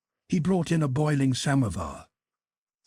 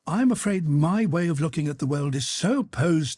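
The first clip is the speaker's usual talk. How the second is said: higher-pitched, hesitant courtesy; smiling, wavering; 6 semitones higher than usual. A narrator's reading. Pierre answering the Freemason, smiling and wavering. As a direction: feel for the words apologetically. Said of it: "smiling and wavering between".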